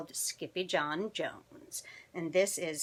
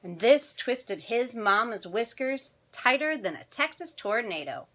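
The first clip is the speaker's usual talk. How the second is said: animated picture-book narration; children's story reading; 3 dB louder than usual. A narrator's reading. Storyteller reading tonight's picture book to children, animated. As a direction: read it expressively to young listeners.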